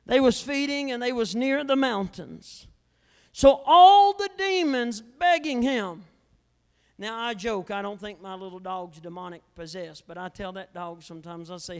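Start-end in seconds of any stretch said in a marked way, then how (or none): 3.3-6.0 emphatic preaching. Acted. Preaching the scripture reading.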